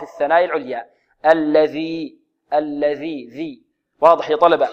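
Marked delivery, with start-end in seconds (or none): 1.3-3.7 الذي with tongue tip between the teeth, a soft "th" as in this; interdental dhal. Shown as a demonstration. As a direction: slowly show the ذ in الذي. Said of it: "لابد من إخراج الذال هنا من طرف اللسان". (الذي بذال معجمة من طرف اللسان)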